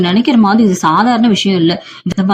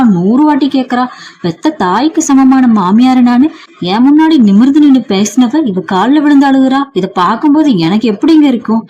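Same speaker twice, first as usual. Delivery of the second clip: bitter angry rant; 3 semitones higher than usual. Acted. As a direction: rant as if the insult burns in your stomach. Jealous mother-in-law rants to husband.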